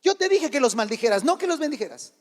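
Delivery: mildly indignant retold complaint; a touch of royal annoyance; annoyed king. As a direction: scold lightly as an offended king. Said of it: "se enoja, se molesta".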